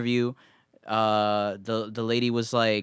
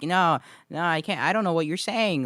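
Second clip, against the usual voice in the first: imitating mocking customer; 6 semitones higher than usual. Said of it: "like, making fun of my accent".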